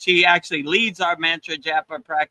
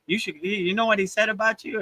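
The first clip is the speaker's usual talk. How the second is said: sly, hushed gossip, a little higher; gossiping crow; 5 semitones higher, 5 dB quieter, faster than usual. Retold or imitated. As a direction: lean in and stir trouble, hushed and sly. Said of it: "gossiping in the cat's ear".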